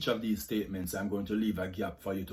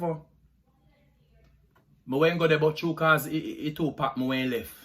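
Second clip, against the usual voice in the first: Jamaican patois accent; 3 semitones higher than usual. Shown as a demonstration. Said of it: "Jamaican accent tag".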